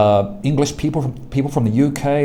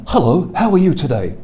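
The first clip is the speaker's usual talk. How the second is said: London accent; 4 semitones higher, 3 dB louder than usual. Shown as a demonstration. Teacher demonstrating a traditional London accent. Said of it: "traditional U K English, maybe from London".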